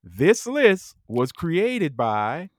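slow, grand game announcer; show host intro. Acted. Host announcing the Fuck Marry Kill game, slow and grand. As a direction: roll it out like a gameshow host.

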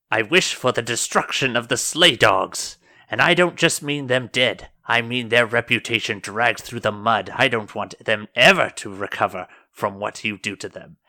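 mildly heated, emphatic demand; a touch of venom, punching key words; vengeful wish. Acted. Churchwoman wishing destruction on the Slay Dogs, emphatic and vengeful.

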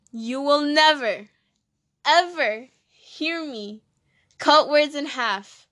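slow, deliberate stress on "never" and "ever"; emphatic vow. Real, not acted. Vowing to never cut words in half, slow and emphatic. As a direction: draw out each word, punched with pauses.

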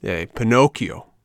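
slow, mildly shouted call; shouted challenge. Acted. Biggest boy confronts puppet, half-shouted challenge. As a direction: call him out, drawing it out. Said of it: "shouted the biggest of the boys".

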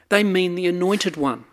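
ordinary delivery

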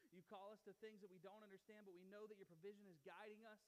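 steady, earnest prayer voice. Acted. Pastor praying over the church before the sermon, earnest.

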